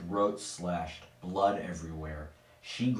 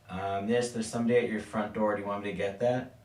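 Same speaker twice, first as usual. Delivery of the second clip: calling through door; 3 semitones higher, 3 dB louder, faster than usual. Acted. Plumber calls through bathroom door.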